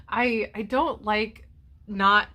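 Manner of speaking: slow, close to tears; moved to tears by her son's text; a touch of tears. Real, not acted. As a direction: hold back the tears, slowly. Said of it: "I'm getting teary-eyed about it".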